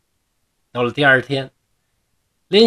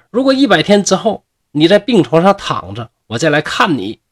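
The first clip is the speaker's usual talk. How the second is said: louder, higher angry ultimatum; angry farewell; 4 semitones higher, 5 dB louder than usual. Acted. Lianxiang angrily warning him before walking out, louder. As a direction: lay down the ultimatum as you leave. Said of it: "气愤的就走出去了".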